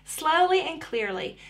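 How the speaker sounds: "slowly and clearly" in measured, distinct words. Shown as a demonstration. Therapist naming two things to think about, slow and clear. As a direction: say "slowly and clearly" with care on each word.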